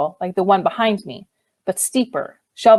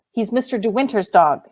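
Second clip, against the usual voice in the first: gentle; 2 semitones higher than usual. Acted. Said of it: "I said gently".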